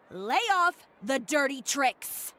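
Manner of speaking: slow, punched, angry command; angry warning. Acted. Chiori warning Uter to quit his tricks, angry and slow. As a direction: spell out each word as a threat.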